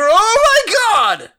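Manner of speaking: high, loud stunned shout; shocked shout. Acted. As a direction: scream in shock. Shock at explosion.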